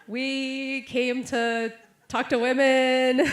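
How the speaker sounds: high, drawn-out words through laughter; laughing. Retold or imitated. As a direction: retell it while cracking up, loud and slow. Laughing while retelling own reply.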